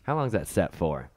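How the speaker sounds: Southern accent. Shown as a demonstration. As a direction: ask it like a Southern local. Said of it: "I have to read that in Southern accent".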